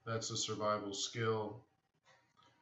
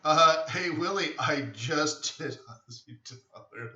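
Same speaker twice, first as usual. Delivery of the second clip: calling out; 5 semitones higher, 8 dB louder than usual. Real, not acted. Greeting a viewer in chat.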